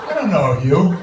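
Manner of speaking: rising, rough Boston comeback; hostile local retort. Retold or imitated. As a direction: bite back at a friendly stranger. Hostile local answers greeting.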